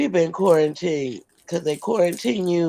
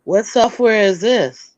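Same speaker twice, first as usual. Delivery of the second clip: repeated louder so it is heard; 4 semitones higher, 5 dB louder than usual. Real, not acted. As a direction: say it again, louder this time.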